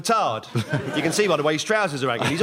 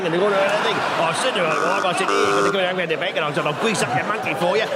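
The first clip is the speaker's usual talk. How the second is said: East Ender impersonation; faster than usual. Acted. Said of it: "incorrect impersonation of an East Ender".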